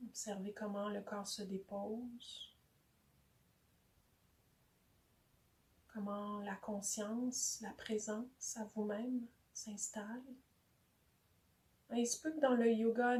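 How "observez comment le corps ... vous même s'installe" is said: soft, unhurried meditation voice; guided meditation. Real, not acted. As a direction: invite them softly to settle, leaving long pauses. Leads a meditation.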